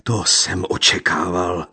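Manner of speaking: gypsy calling out bitterly; loud cry. A narrator's reading. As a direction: fling the words out.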